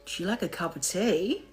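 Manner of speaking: American accent slipping toward Australian; attempted American accent. Shown as a demonstration. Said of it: "An American accent will say".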